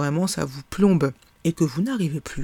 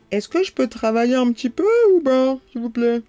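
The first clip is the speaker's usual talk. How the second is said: mildly raised, not angry; calm quote of a shout; 7 semitones higher, 5 dB louder than usual. Retold or imitated. Father asked to calm down, quoted calmly without anger. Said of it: "je le dis, euh, sans colère".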